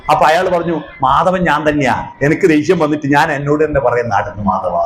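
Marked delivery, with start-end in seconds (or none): 1.0-4.8 low, unhurried admission; calm confession. Retold or imitated. Father admits he talks to himself, calm low voice. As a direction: explain it low and evenly, holding temper in. Father calmly explains his self-restraint.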